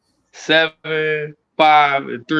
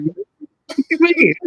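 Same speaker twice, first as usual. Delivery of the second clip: drawn-out mock kid; 13 semitones higher, much slower than usual. Kid voiced in story.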